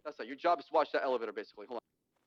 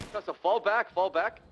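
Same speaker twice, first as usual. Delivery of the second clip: loud urgent order to retreat; urgent shout; 4 semitones higher, 5 dB louder, slower than usual. Real, not acted. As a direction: call it out sharply over the fight.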